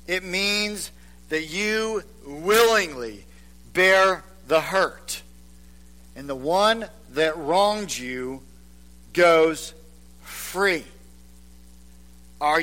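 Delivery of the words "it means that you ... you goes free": slow repeat. Acted. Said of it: "Let me repeat it".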